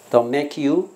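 "make you" run together as "may-kyoo", voice rising; linked words. Shown as a demonstration. Teacher modelling "Don't make you" for the class, linked. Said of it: "要连起来".

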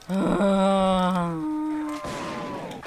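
long, drawn-out groaning sigh; long weary sigh. Real, not acted. Gamer fed up with the game, long sigh. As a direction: let out a long exhale.

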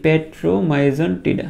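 petromyzon tida drawn out very slowly; slow drill take of petromyzon tida; slow pronunciation. Shown as a demonstration. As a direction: model petromyzon tida syllable by syllable. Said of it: "আমার সাথে সাথে করে একবার দুইবার একটু উচ্চারণ করে ফেলো".

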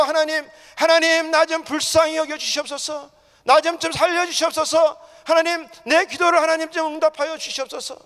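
high, loud, urgent begging; crying out in prayer. Shown as a demonstration. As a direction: demonstrate desperate calling on God for mercy. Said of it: "소리 지르는 사람들이 되어야". (간절히 부르짖는 기도)

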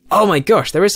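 high, loud burst of delight; excited surprise. Real, not acted. Player finding useful loot at last, excited surprise. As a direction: exclaim it like a lucky find.

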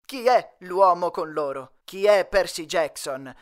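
milk each question like a sensational news host; dramatic. Acted. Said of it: "in tono drammatico".

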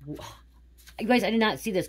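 정말 놀란 듯 높고 크게; real surprise. Real, not acted. Psychic surprised by her cards.

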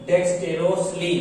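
"डेक्स्टेरोसली" sounded out in clear parts; pronunciation demo. Shown as a demonstration. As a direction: say "डेक्स्टेरोसली" as deks-te-ros-li for learners. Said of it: "इसका pronunciation होगा". ("डेक्स्टेरोसली" का साफ़ उच्चारण, हिस्सों में)

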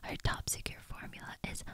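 whispered script reading, no voice at all; ASMR whisper reading. Acted. Reciting the bee movie script in ASMR whisper. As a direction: hush through the whole script like a bedtime secret.

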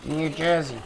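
half-hearted try at an American accent; badly faked American accent; attempted American accent. Shown as a demonstration. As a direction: have an unconvincing go at American. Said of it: "I can't do an American accent".

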